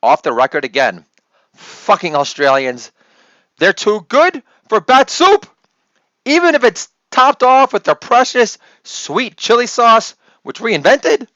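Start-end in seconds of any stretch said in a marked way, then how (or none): 1.6-11.3 slow, then higher, mock Chinese accent; a hint of a fuming Chinese official, Chinese accent; lightly done mock Chinese accent, fuming. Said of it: "my impersonation of China".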